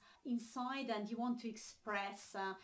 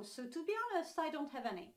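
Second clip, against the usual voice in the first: higher-pitched example of frankness; candid admission; 5 semitones higher, faster than usual. Pretend. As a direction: admit it openly, pitched up. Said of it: "want to express how honest you are".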